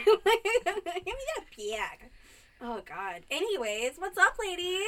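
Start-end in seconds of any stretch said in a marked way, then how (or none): 0.1-2.1 put-on slow, higher, laughing Michigan accent. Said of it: "I pick up your accent".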